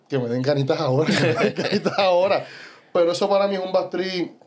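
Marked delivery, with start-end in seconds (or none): 0.1-2.4 laughing through it. Retold or imitated. Joking about needing the bathroom.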